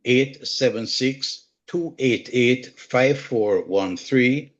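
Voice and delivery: slow, careful number reading repeated; slow, deliberate phone number repeat; slow dictation. Real, not acted.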